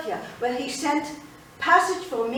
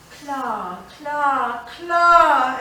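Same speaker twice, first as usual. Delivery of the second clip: affectionate calling; 2 semitones higher, 6 dB louder, much slower than usual. Retold or imitated. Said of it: "calling me with affection".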